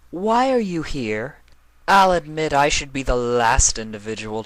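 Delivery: Nightmare Moon. Acted. Nightmare Moon correcting Chrysalis, a regal, lecturing voice. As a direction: correct them with cool authority.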